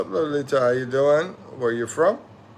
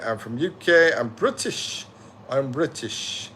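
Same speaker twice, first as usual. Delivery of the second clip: lightly mimicked British accent, pitched up at first; put-on British accent; 2 semitones higher than usual. Streamer imitating a UK viewer, mock British accent. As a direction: play at being British, accent and all. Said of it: "You like the accent thing".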